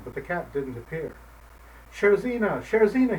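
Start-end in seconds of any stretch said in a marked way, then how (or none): 1.9-3.2 higher, louder shouted name; old man shouting for the cat. Acted. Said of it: "he shouted again".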